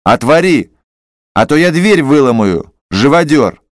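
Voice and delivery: angry shout. Acted. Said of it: "крикнул Иван Дмитрич".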